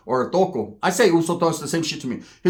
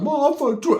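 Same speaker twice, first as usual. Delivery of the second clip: mock panic; 10 semitones higher than usual. Panicked message to mom.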